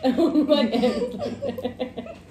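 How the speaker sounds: slow, drawn-out laughing; laughing while talking. Real, not acted. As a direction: laugh it out slowly. Eating, laughing repeat.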